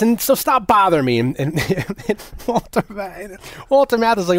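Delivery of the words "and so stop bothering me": high, haughty brush-off; smug dismissal. Retold or imitated. Balsam dismissing the cops, high and haughty. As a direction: wave them off, pleased with yourself. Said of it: "he says".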